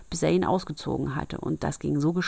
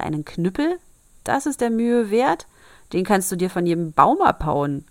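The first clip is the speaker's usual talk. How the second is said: scoffing disbelief, louder; father mocks the gift; incredulous; 2 semitones higher, 5 dB louder than usual. Father scoffs at son, loud incredulous. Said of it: "rief der Vater".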